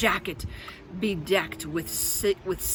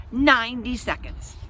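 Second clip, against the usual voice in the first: stern orders; 5 semitones higher, 4 dB louder than usual. Acted. Sitter barking orders.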